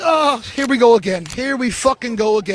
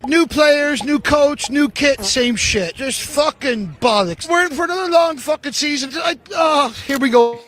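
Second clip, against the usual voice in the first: angry fan rant. Real, not acted. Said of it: "Toronto fans, they're not happy".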